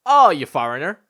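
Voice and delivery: loud exclamation climbing in pitch; acted outrage. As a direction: build to high, exasperated disbelief. Acted outrage at being called foreigner.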